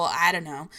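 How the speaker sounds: I DON'T KNOW run together, typical New Jersey slur; slurred together. Shown as a demonstration. Showing own New Jersey slurring, words run together. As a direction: slur "I don't know" into one loose word. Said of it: "I slur my words together a little bit".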